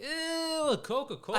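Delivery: put-on kid's disgust. Son's disgust at soda imitated.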